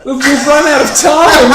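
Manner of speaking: laughing. Real, not acted. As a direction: wrap up while cracking up. Laughing wrap-up.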